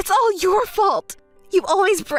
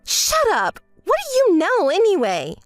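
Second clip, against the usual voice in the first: angry; 4 semitones higher than usual. Acted. Angry rebuke of friend.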